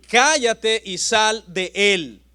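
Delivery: slow, firm command to the demon; measured stern order; stern rebuke. Acted. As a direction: rebuke it slowly, word by word. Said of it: "Jesús lo reprende".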